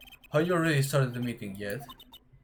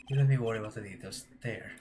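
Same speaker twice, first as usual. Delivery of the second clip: ordinary delivery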